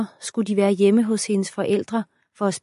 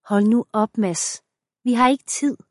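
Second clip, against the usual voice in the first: louder, exasperated protest; 4 semitones higher, 4 dB louder than usual. Acted. Wife fending off her husband, exasperated. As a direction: shut him down, no time.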